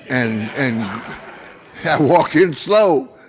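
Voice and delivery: repeating it through a real laugh. Real, not acted. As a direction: laugh it out at the memory.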